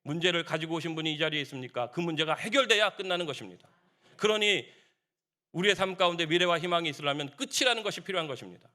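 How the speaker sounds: ordinary talk, nothing marked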